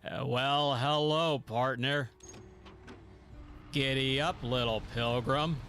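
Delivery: western cowboy drawl; John Wayne. Acted. Streamer trying out a cowboy impression, John Wayne voice. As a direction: greet them as a movie cowboy. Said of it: "Is that more of like a John Wayne".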